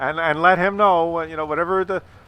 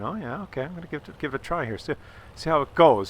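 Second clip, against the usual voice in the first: quiet inner thought; 5 dB quieter, faster than usual. Retold or imitated. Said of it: "She's thinking".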